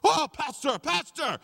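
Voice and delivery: high, loud delighted cry of recognition; lit up with joy. Retold or imitated. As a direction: burst out thrilled at seeing his pastor. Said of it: "he lit up like a Christmas tree".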